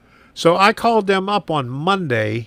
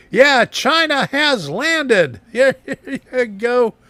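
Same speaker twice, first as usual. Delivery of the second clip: excited; 8 semitones higher, 3 dB louder, slower than usual. Real, not acted. Greeting a chat joke.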